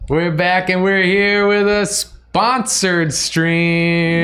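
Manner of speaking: slow, high hammed-up announcer; silly clown. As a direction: stretch it out like a goofy host.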